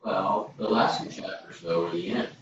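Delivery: faint, distant voice; calling from the next room; from another room. Real, not acted. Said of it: "I'm in the other room".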